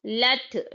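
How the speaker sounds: लत said light and plain, the wrong way; wrong demo. Shown as a demonstration. Teacher demonstrates the students' mistake in लत. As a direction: show the weak लत. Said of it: "लत नहीं होना यहाँ पे".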